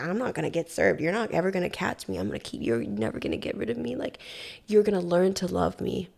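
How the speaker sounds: a hint of a sinister ex taunting her; menacing stalker. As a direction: stalker taunting her that she'll never be rid of him. Quoting stalker's threats.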